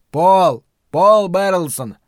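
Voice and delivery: slow loud shouted name; shouting. A narrator's reading. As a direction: spell it out shouting. Shouting name over bad line.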